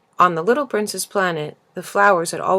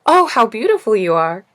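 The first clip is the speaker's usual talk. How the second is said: admiring; 4 semitones higher, 7 dB louder than usual. A narrator's reading. Prince admires the flower.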